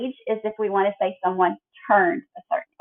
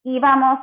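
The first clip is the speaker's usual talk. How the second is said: íbamos with a higher, stressed opening í; stress on first syllable; 4 semitones higher than usual. Shown as a demonstration. Teacher drilling forms of ir, stress on first syllable. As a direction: lift the voice on the í of íbamos. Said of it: "the only form with an accent is íbamos".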